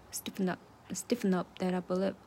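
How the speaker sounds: "Stiffen up" with the p only mouthed, barely voiced; whispered drill of "stiffen up that upper lip", p unreleased; soft swallowed p. Shown as a demonstration. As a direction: drop the p in "stiffen up" to a silent lip shape, short pause. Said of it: "把那个P给弱化，只做一个嘴型".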